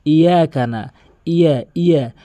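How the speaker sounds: "ইয়া" with a single light y, undoubled; common mispronunciation. Shown as a demonstration. Teacher showing the mistake first, light undoubled pronunciation. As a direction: say "ইয়া" short, skipping the doubling. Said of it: "ভুলটি আগে বলি".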